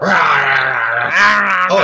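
long loud mock roar; hammed-up wild yell; imitated Gary Busey yell. Mimicking Gary Busey in the film, long mock roar. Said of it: "it's Gary Busey again".

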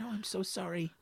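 high, hushed mock apology; apologetic father. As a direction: apologize in a small, high joke voice. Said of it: "He went".

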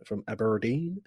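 slight West Country slip on Aberdeen; accidental touch of West Country; West Country accent. Real, not acted. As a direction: let Aberdeen come out faintly West Country. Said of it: "why did I say Aberdeen in a West Country accent?".

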